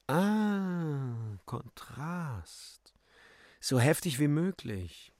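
lightly affected aesthete, opening on a high sigh; rapturous Lippenknabe. Acted. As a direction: savour the idea, then lecture. Lippenknabe's acted entrance speech. (leicht verzückt, affektiert)

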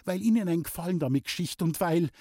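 trembling voice, rushed; shaky, near tears; shaky breathless pleading. Acted. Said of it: "mit zitternder Stimme".

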